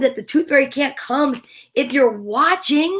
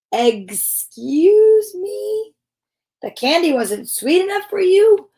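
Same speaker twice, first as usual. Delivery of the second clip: indignant excuse me; 5 semitones higher than usual. Acted. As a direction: sound affronted by her complaint. Indignant fairy letter.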